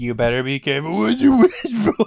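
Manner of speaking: very loud, fast, high-pitched taunting shout. Repeating Bobcat's taunt to the other speaker: imitating Bobcat. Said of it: "slowly transformed into the Bobcat".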